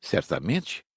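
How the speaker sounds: ordinary delivery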